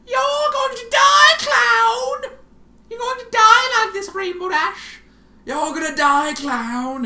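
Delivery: very high, loud, slow shrieking; manic screaming. Acted. Twilight screaming at Rainbow Dash that she'll die, manic shriek. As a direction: shriek with mad glee.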